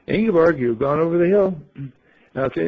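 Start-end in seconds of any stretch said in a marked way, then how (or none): 0.1-1.6 raised, louder voice of doubting friends; playing the skeptical gang; disbelieving. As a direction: call out the name in mock disbelief. Voicing the gang's disbelief.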